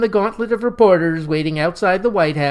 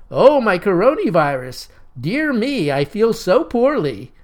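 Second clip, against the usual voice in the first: mock moan; 3 semitones higher than usual. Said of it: "moaned aloud".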